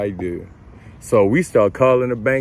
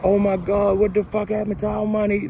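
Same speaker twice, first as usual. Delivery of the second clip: high, frantic imitated girlfriend; girlfriend going off; 9 semitones higher than usual. Imitating his girlfriend panicking over the lost money. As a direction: mimic her panicking high and fast. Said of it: "she just going off".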